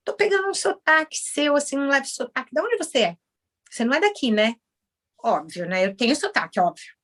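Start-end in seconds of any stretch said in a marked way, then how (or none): 0.1-4.6 imitating American clients. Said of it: "os americanos aqui às vezes falam assim".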